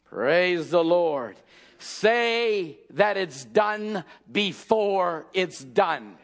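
low, slow and drawn out; slow hushed praise. Real, not acted. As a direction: let it sink in reverently.

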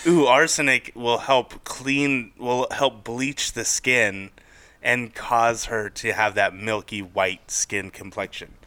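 slow, dreamy voicing of Victorian ladies; lightly drawn-out ooh as if beauty advice; slow mock Victorian belief. Host voicing Victorian women about arsenic, slow mock dreamy. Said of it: "Because they thought".

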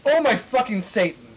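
high, loud hammed-up shriek; dramatic mock scream. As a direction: shriek it in mock goth horror. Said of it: "I screamed as I read it".

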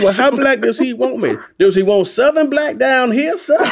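high, loud hammed-up Southern Black voice; Southern black accent. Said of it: "decided to have some fun with it".

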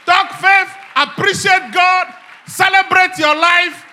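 high, loud exhortation rising to shouts; full-force preaching. Real, not acted. Preacher urging everybody to pray and talk faith, shouting. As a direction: fire off each command at the top of the voice.

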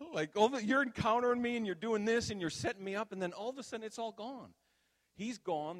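high-pitched, worked-up pleading; agitated protest. Retold or imitated. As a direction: pile up the complaints, high and overwrought. Retelling his distressed plea to God.

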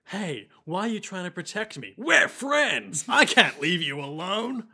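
lightly acted, earnest flashback dialogue; full-on character voice. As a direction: play it up, lifting on the middle phrase. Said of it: "it was very full on".

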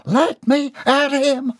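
high, slow, fierce snarl; spat. Acted. Bobby Sue struggles against Jeb, spitting fury. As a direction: spit it out wildly. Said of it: "she spat".

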